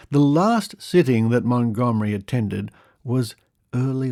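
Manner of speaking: measured, emphatic storytelling read; lively, deliberate narration; article read-aloud. Acted. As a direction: read out a curious old news report. Reads an old article aloud.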